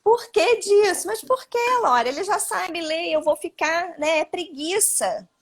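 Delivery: high, pleading parent asking why; a parent whining that the child is just lazy; whiny parent protest. Retold or imitated. Imagined parent protesting the advice.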